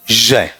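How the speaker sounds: continuous zh at the start of "जय"; sound demonstration. Shown as a demonstration. Teacher contrasting three sounds for students, sound demonstration. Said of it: "कौन सा".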